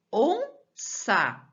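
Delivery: Onça split as ON, ÇA, high on ON; syllable breakdown. Shown as a demonstration. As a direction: sound out Onça in two separated syllables. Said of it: "É onça que eu falo?".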